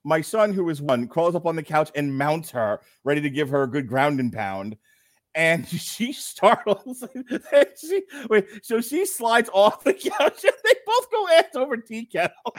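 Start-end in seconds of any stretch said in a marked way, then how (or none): 5.3-12.5 high, drawn-out words through giggles; laughing while telling. Real, not acted. Dad telling his friend of the couch tumble, cracking up. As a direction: struggle to tell it through laughter.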